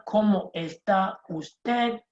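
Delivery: slow, careful teacher model; teacher modelling a formal greeting; slow model phrase. Shown as a demonstration. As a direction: say it slowly for learners to repeat. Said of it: "So the formal one".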